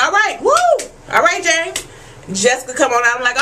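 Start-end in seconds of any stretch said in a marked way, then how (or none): 0.0-1.8 high, cheering whoop; root for him from the couch; happy mock cheer.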